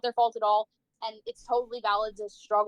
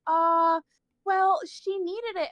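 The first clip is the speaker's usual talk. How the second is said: higher, slow hesitant excuse; sheepish school official; 6 semitones higher, much slower than usual. Retold or imitated. School staff making excuses to angry mom, sheepish higher voice. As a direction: hedge awkwardly as if caught out.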